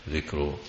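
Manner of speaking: "ذكر" with a short i and a vowelless kaf; kasra on dhal. Shown as a demonstration. Teacher spells out the reading "ذكر", as a noun dhikr. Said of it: "بكسر الذال".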